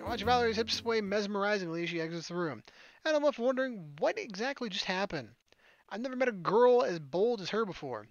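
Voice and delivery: slightly lifted storytelling voice; story narration. A narrator's reading. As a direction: read the scene out like a novel. Reads the game's narration.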